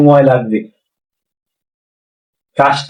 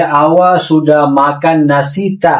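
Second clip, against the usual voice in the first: slow model phrase; much slower than usual. Shown as a demonstration. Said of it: "যদি আপনাকে এরকম প্রশ্ন করে".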